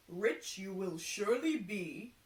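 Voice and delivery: a hint of a solemn seer; lightly voiced prophet, grand and sure; fortune teller voice. Fortune teller flattering the carpenter, lightly voiced seer.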